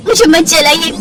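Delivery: high, begging; frightened plea. Acted. Simran pleads not to be burned, high and frightened.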